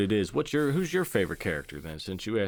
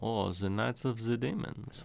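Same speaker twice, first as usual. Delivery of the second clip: soft, slow, put-on old man's German accent; 6 dB quieter than usual. Wondering aloud how to pronounce the movie title, in an old German guy accent. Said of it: "think of like an old German guy".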